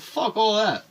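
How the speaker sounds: high, loud burst of defiance; acted dismissal. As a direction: throw the idea out loudly. Acts out rejecting honesty with dad.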